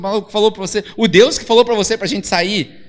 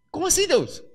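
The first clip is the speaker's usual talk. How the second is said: higher, softer disbelief; shocked; 8 semitones higher, 4 dB quieter than usual. Acted. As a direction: gasp out the question in shock. Abraão shocked by command. (Abraão chocado, voz mais aguda)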